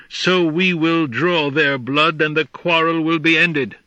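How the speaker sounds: eager menace. Acted. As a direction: savour the thought of blood. Jackal plans bloodshed.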